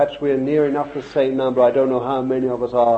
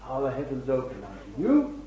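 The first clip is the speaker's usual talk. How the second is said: quiet searching question; 7 dB quieter than usual. Real, not acted. Preacher asks the congregation about themselves, quiet searching question. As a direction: ask it softly, letting it sink in.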